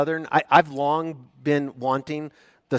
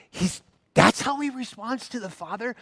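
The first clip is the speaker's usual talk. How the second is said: mock surprise; 9 semitones higher than usual. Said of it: "you look at that sentence and you think".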